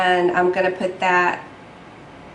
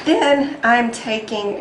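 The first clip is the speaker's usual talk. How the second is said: voice cracking; 3 semitones higher, slower than usual. Real, not acted. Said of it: "my voice cracked like a fourteen-year-old boy".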